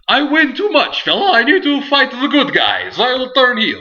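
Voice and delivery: high, loud mock Irish accent; bad Irish accent. Host imitating Sheamus complaining he wins too much, bad Irish accent. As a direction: ham up an Irish brogue as Sheamus. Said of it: "that was a weird accent for Irish".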